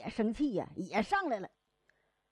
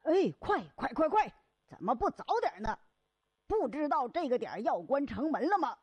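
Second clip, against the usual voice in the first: higher, urging hurry-up calls; hurrying shout; 4 semitones higher than usual. Acted. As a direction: chivvy the latecomers along. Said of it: "打更的就喊".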